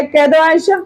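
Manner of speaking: ordinary talk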